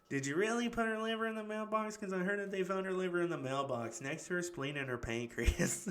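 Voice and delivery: a hammed-up high voice that ends laughing; excitable mock quote. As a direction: play the movie line high, breaking into laughter at the end. Acted movie quote, cracking up.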